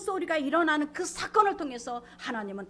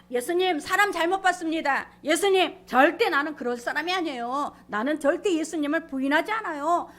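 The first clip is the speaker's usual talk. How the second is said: loud, raised-pitch insistent denial; vehement protest; 4 semitones higher, 6 dB louder than usual. Retold or imitated. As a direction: protest your loyalty at full voice. Acts out Peter's vehement protest.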